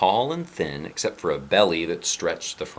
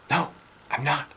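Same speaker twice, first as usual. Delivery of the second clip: put-on higher boyish voice, insisting; 8 semitones higher than usual. Boy insisting to the doubting sister. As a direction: protest it like a kid. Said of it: "the boy insisted".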